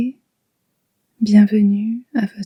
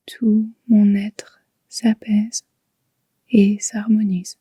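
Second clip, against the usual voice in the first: guided meditation. Shown as a demonstration. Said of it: "Murmurez intérieurement trois fois".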